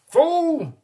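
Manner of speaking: high, loud cackling shriek; cackling goat woman. A narrator's reading. The goat woman cackles at the mayor, high and loud. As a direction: cackle it out at him. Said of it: "she cackled at the mayor".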